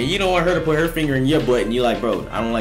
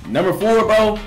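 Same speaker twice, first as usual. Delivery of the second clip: hyped up; 9 semitones higher, 5 dB louder than usual. Real, not acted. Hyped list of sex tips.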